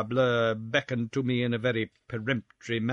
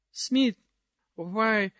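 dancing society lady; 9 semitones higher than usual. Acted. Missus Pirouette chats while dancing.

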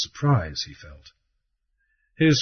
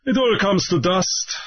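sententious; 9 semitones higher than usual. Acted. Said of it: "Raoul remarked sententiously".

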